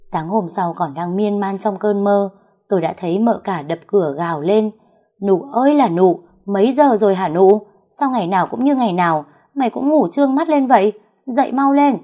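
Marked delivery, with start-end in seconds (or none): 5.3-12.0 higher, louder yell through the door; shrill yelling. Acted. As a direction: shout the maid awake, shrill and impatient. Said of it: "Tiếng mợ cả the thé gọi".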